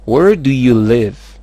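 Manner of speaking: slow, loud model question. Shown as a demonstration. Teacher gives learners the question to repeat, slow and loud. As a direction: model it clearly, drawn out.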